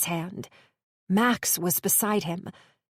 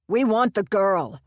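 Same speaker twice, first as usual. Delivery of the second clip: hissed threat; 4 dB louder than usual. Acted. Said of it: "Pedro hissed".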